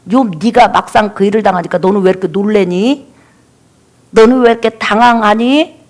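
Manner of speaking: lightly acted taunting questions; understated jeering, question after question; mocking. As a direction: needle a stricken friend with mild scorn. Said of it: "말로 비웃는 거예요".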